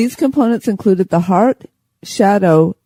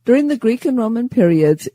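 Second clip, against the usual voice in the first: giggling. Real, not acted. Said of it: "get the giggles".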